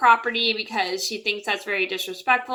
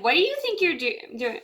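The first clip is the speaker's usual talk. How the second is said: mildly indignant, higher-pitched retort; irritated mom; 6 semitones higher than usual. Retold or imitated. Mom confronting the neighbor over trimming, mildly irritated. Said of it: "she gets kind of irritated".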